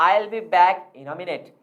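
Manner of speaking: slow sentence sinking on "minute"; falling intonation. Shown as a demonstration. Teacher giving a falling intonation example, "minute" falling. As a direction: let the pitch drop on "minute". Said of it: "आवाज नीचे की तरफ गिरेगी".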